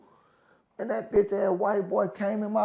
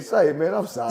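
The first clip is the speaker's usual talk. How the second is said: retold apology. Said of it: "I said".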